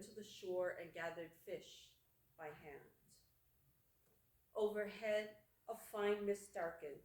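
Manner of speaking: measured poem recital with long pauses; poetry reading. Acted. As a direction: read it as verse, phrase by phrase. Reads own poem aloud.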